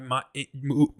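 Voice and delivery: tripping over words in false starts; stuttering. Real, not acted. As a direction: stumble through broken syllables as the tongue lags. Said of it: "I'm fucking stuttering".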